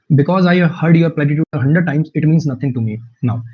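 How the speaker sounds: slow, deliberate reading of the sentence; slow example read. Shown as a demonstration. Teacher reading the example sentence slowly to the class. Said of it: "reading example sentence slowly".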